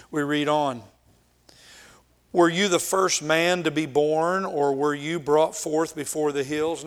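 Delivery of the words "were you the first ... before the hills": mild, pointed sarcasm; sarcastic. Acted. Eliphaz challenging suffering Job, sarcastic. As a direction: ask it as a mocking challenge. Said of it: "Now we hear sarcasm".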